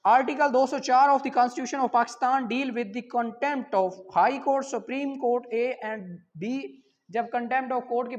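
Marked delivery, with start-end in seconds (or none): 0.0-6.6 reading out the question. Shown as a demonstration. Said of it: "question number सात है".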